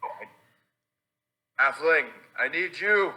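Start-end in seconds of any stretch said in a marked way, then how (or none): 1.6-3.1 high, urgent call after a runaway; pleading call. Acted. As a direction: beg them to come back, voice raised high. Player calls after fleeing halfling.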